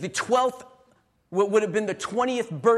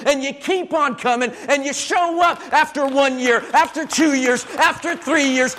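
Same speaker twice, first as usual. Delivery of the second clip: insistent, rhythmic repetition building in force; rousing preaching; 2 semitones higher than usual. Real, not acted. Preacher applauds those who don't give up, rousing preaching. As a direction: drive each repeated phrase home like a preacher.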